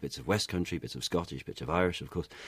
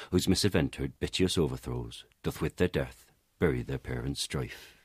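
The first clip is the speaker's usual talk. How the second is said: Elizabethan accent, quick and rolling; original Shakespearean pronunciation; 2 semitones lower than usual. Shown as a demonstration. Reciting Romeo and Juliet prologue in original pronunciation. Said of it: "the opening prologue to Romeo and Juliet".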